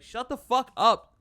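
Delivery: loud, drawn-out telling-off; exasperated retort. Retold or imitated. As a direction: snap it loudly, imitating someone silencing a chatterbox. Mimics others silencing C-3PO.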